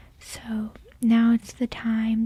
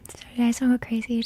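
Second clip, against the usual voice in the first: whispering; much faster than usual. Real, not acted. ASMR tarot whisper.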